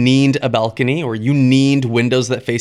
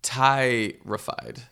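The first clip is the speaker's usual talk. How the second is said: terrified; 2 semitones lower, 6 dB quieter, much slower than usual. Pretend. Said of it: "what we call terrified in the biz?".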